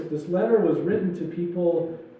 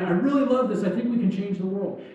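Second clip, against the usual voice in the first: excited; 2 semitones higher than usual. Retold or imitated. Newcomer who gets really excited, imitated as gushing. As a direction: play someone newly fired up, pitch lifted. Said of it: "Somebody gets really excited".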